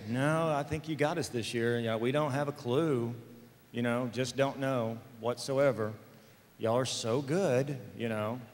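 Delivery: mock-sincere, understated and easy. Teenager feigning cluelessness to the parents, mock-sincere. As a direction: play innocent with a mild, earnest-sounding voice. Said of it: "Me and my sincere voice".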